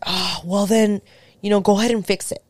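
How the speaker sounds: lightly mocked grouchy partner; grouchy retort. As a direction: retell his grumpy brush-off, quick at the end. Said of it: "being such a grouch the whole time".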